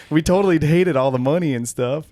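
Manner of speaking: mocking high and loud; sarcastic airhead voice. Mocking Playboy bunnies.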